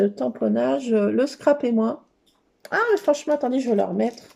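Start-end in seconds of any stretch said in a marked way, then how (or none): none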